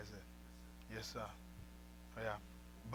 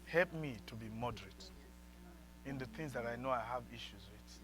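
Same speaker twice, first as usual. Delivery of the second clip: prayer; 5 semitones lower, 10 dB quieter than usual. Shown as a demonstration.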